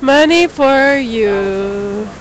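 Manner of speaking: slow, low seductive purr; sexy voice. Pretend. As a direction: drawl it out slowly and seductively. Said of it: "I'm using my sexy voice".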